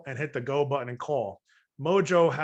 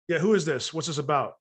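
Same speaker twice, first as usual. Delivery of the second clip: guarded, who-are-you tone; lightly voiced annoyed homeowner picking up; wary homeowner. Suspicious homeowner answering the phone.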